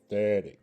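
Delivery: "thodek" with th at the start; "thodek" said carefully as a teaching example; proper pronunciation. Shown as a demonstration. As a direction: model "thodek" on its own, th not z. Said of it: "That's the proper way".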